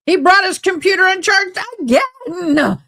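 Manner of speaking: a hint of a fed-up letter writer; mock annoyed letter voice. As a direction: complain like the writer, lightly voiced. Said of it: "I got pissed at my lawyer again".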